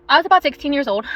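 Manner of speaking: breathless from rushing to the car; out of breath. Real, not acted. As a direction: talk while short of breath. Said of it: "sorry if I'm out of breath".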